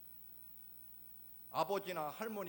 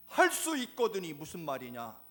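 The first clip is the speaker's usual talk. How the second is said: Jesus rebuking, louder and firm; stern and firm; 2 semitones higher, 10 dB louder than usual. Acted. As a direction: press each word like a stern rebuke. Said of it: "아주 엄중하고 단호하게". (엄중하고 단호하게 꾸짖는 예수님)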